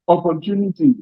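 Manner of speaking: opportunity leaned on, every syllable given weight; stress on opportunity. Shown as a demonstration. Union leader stressing his chance to the audience, opportunity underlined. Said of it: "I want to underline the word opportunity".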